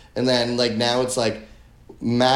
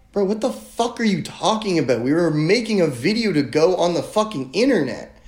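raised, exasperated disbelief; retold outrage, pitched up; incredulous retort; 5 semitones higher than usual. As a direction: throw it back at him, higher and incredulous. Retelling heated argument with guide.

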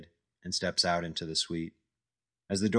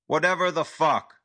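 high, loud furious yell; angry yell; 9 semitones higher, 6 dB louder than usual. Acted. Al yelling at Jack over his name, furious. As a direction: bark it out in a rage, much higher and louder. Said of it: "Al yells".

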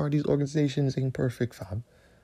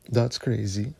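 laughing; 2 semitones lower, slower than usual. Real, not acted. Laughing at a joke about a singer.

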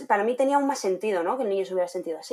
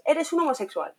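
a higher mock yell as an insult; shouted insult; 6 semitones higher than usual. The child insults a classmate, mock shouting. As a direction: throw it like a playground insult.

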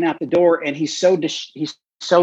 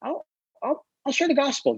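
1 quiet resolve; 13 semitones higher, 6 dB quieter than usual. Retold or imitated. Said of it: "he's like".

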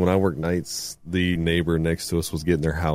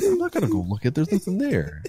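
high, lightly whiny refusal; husband refusing to get up, pitched up; mock whiny refusal; 11 semitones higher than usual. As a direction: brush it off in a raised voice. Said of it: "I'm like".

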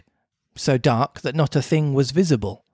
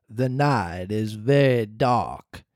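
low, slow ghostly cricket; slow low voice of a spirit; talking cricket voice; 5 semitones lower, 3 dB quieter, much slower than usual. Acted. The cricket warns.

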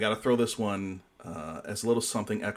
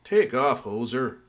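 put-on loud Canadian accent on "Take off"; 5 dB louder than usual. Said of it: "your Canadian accent's gotten really good".

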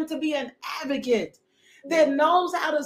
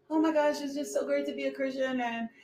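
softer, quick, breezy mock gush; mock cheerful Christian; 4 dB quieter, faster than usual. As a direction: lightly parody a gushing believer. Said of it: "we don't live this".

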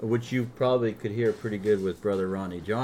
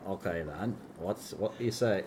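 put-on Vermont accent; 3 semitones lower, 10 dB quieter than usual. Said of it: "I'm trying to get my Vermont accent".

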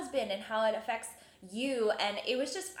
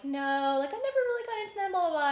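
mock-casual, high-pitched brush-off; casual dismissal; 10 semitones higher, 4 dB louder than usual. Telling listeners how she brushed off her friend, casual dismissal. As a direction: lightly toss it off, higher and quicker. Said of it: "I'm, like, all casual about it".

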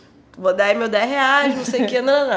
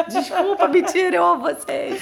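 higher, giggling take-back; laughing apology; 5 semitones higher than usual. Real, not acted.

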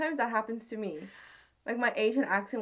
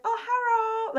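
high, louder mimicry of an Asian accent; copied Asian accent; 12 semitones higher, 6 dB louder, slower than usual. Customer copying the cashier without thinking, mimicked Asian accent. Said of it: "I copied her accent".

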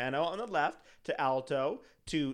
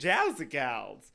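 drawn-out quote; 6 dB louder, much slower than usual. Retold or imitated. Quoting Schitt's Creek.

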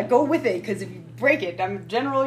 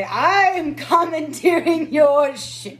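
commanding declaration; 6 semitones higher, 6 dB louder, much slower than usual. Acted. Player seizes ship as general.

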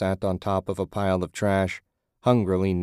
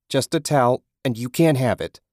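whiny hoarder; 5 semitones higher, 5 dB louder than usual. A narrator's reading. Man clinging to towel.

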